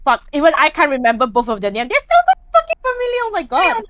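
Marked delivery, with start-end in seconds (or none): 1.9-3.8 high, fast exasperated outburst. Real, not acted. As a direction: throw your hands up in frustration. Frustrated at forgetting names.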